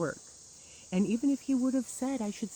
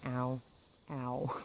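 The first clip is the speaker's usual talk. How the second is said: mock pain; 6 semitones lower, 7 dB quieter than usual. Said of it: "I'm sitting there going".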